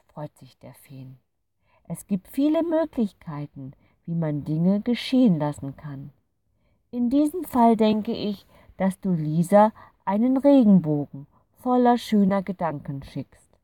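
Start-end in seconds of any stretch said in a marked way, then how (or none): 1.8-13.6 higher, louder, kindly fairy explaining; a gentle creature sharing a secret truth; wise fairy. A narrator's reading. (weise, freundliche Fee erklärt sanft)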